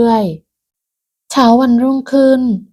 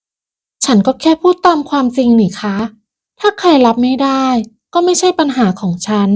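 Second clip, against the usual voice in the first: higher, hard and defiant; harsh; 4 semitones higher than usual. Acted. Pim rejecting her mother-in-law's advice, harsh and defiant. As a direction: shut down the lecture. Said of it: "ก่อนจะตอบด้วยน้ำเสียงแข็งกร้าว".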